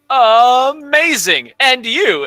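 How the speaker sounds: drawn-out high, loud enthusiasm; gushing teacher. Acted. Teacher praising an answer and picking the next student, gushing. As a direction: stretch the praise big, then move briskly on.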